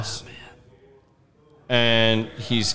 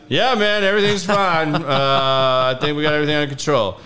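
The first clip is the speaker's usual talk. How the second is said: faked breezy reassurance; 2 semitones higher than usual. Assuring the dad on the phone, faked breezy calm. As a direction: pretend all is fine.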